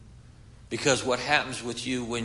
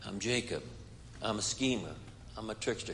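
hushed and ashamed, much softer; whispered confession; 4 semitones lower, 11 dB quieter than usual. A narrator's reading. Jacob whispers his name to the man, hushed and ashamed. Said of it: "he whispered".

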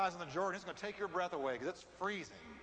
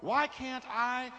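Naaman complaining; 2 semitones higher, 6 dB louder, slower than usual. Retold or imitated. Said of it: "here's what I hear".

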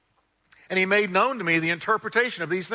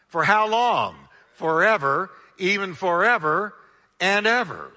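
rising preach; 2 semitones higher, 4 dB louder than usual. Real, not acted. Preacher building to climax.

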